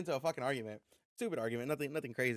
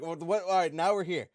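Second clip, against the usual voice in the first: exasperated disbelief; 4 semitones higher, 7 dB louder than usual. Retold or imitated. Retold argument, baffled.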